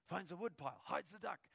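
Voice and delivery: ordinary talk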